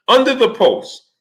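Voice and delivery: slow, high and incredulous; stunned disbelief. Real, not acted. Reading the comments under the post, stunned and incredulous. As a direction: stretch it out in disbelief.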